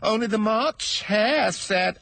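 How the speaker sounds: high, slow stammering plea; timid hatter begging pardon; nervous hatter. Acted. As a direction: stammer it out, afraid of the king. Hatter continues.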